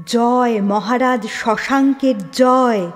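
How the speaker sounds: loud, slow chant of victory; crowd cheer. Acted. Townsfolk cheering the king as Mainak passes, loud slow chant. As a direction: proclaim it like a crowd hailing its king.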